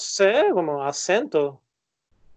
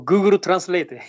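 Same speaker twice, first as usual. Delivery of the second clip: put-on Google Translate in a Japanese accent; playful Japanese-accented English; 2 semitones higher, 5 dB louder than usual. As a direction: say it with Japanese syllables. Jokes with Japanese-accented English name.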